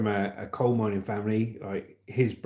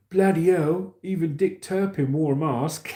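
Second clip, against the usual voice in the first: outraged customer; 7 semitones higher, 5 dB louder than usual. Retold or imitated. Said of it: "one of the customers saw right through it and he went".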